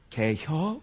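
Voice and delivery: terse Chungcheong question; clipped-short Chungcheong asking; Chungcheong dialect. Shown as a demonstration. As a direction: squeeze the question into a Chungcheong two-syllable quip. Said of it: "충청도 사람들은 그렇게 길게 얘기 못합니다".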